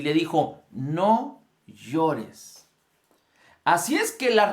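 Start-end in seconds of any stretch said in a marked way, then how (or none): 0.7-2.7 a calm, firm demand, not pity; firm command. Retold or imitated. To the grieving mother at the wake, firm commanding. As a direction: order her to stop crying. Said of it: "Jesús requirió fe de la mujer".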